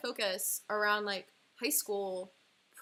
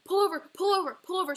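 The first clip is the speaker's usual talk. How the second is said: much higher and louder desperate yell; mock scream at her mom driving; retold screaming; 9 semitones higher, 10 dB louder, faster than usual. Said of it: "I'm screaming at her".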